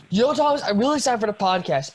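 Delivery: mock excited Josh. Imitating Josh's excited greeting.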